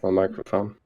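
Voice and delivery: echoing mic in a big room; big hall echo. Real, not acted. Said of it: "Sorry, I'm echoing".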